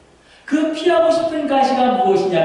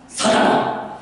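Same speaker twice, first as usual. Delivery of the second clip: whispered rebuke; much slower than usual. Acted. Jesus' rebuke voiced.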